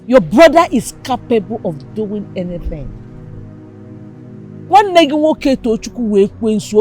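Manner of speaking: loud, stern warning about the brother. Acted. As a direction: warn her hard, no doubt left. Mother warns about dangerous brother.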